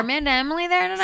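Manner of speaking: rushed, high eager question; fast eager caller. Retold or imitated. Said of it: "just say".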